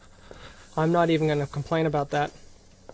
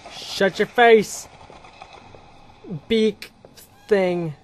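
yell; 6 dB louder, much slower than usual. Real, not acted. Yelling at monster.

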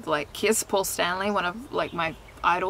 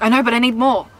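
put-on pleading teen; 3 semitones higher, 8 dB louder, faster than usual. Acts teen pleading with mum.

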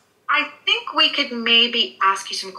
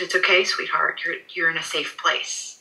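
reassuring; 2 semitones lower, 3 dB quieter than usual. Retold or imitated. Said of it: "I'm having to reassure her".

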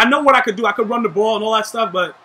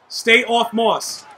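slow repeat; much slower than usual. Shown as a demonstration. Gamer repeating the order to teammate, slow and firm. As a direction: stay off Moss, slowed right down, every word spaced. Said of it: "I repeat".

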